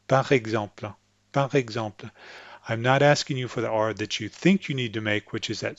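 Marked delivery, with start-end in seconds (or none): 0.1-2.1 PAR EXEMPLE as "pa-REG-zemple", tongue forward, light pop on the R; French PAR EXEMPLE, forward popped R. Shown as a demonstration. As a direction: say PAR EXEMPLE with a little pop instead of a scratch. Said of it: "a little bit of that pop".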